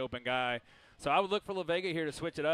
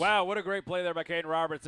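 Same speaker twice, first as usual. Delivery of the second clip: excited; 3 semitones higher, 5 dB louder than usual. Real, not acted. Color commentator reacts to touchdown.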